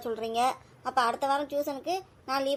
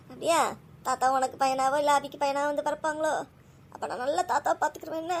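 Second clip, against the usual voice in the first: laughing through tears. Real, not acted. Mother repeats her son's comforting words, laughing through tears. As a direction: smile through the tears, echoing him.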